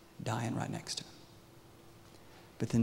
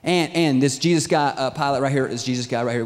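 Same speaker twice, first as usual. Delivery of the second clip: acted accusers; 8 dB louder than usual. Accusers press their case to Pilate.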